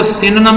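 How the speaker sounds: سینونم said as sinnam, a short clipped middle; "سینونم" pronounced sinnam, the vowels squeezed together; another way to say it. Shown as a demonstration. Teacher showing the sinnam pronunciation of "سینونم". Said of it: "دو تین قسم کی pronunciation".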